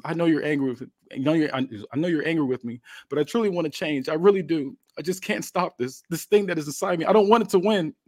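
acted desperation, pitch climbing as it goes; pleading remorse. Wrestler begs an angry Jeff to believe him, pleading.

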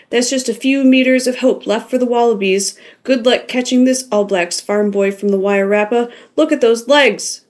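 loud, high, excited rugby commentary; frantic announcer yelling the final seconds; hollering commentator. Acted. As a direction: holler the play-by-play at the glass. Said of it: "Jim hollered".

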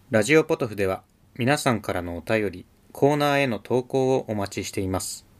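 like a text-to-speech voice reading; computer voice. Acted. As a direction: read it like a machine voice. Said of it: "なんかパソコン音声みたいでしたね".

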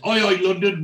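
a hammed-up holler over to the lads; retold shout. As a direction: call out loud like a cocky lad. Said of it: "Oz shouts at Wayne".

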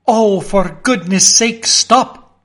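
desperate begging shout; pleading cry. Acted. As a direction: beg the water to halt. Pleading with the advancing flood.

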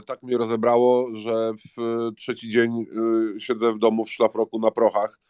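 talking through a blocked nose; stuffy nose from a cold. Real, not acted. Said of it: "bo mówię przez nos".

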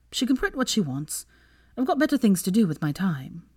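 a touch of heated indignation; raging. Acted. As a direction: protest with mild, defiant exasperation. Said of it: "she raged".

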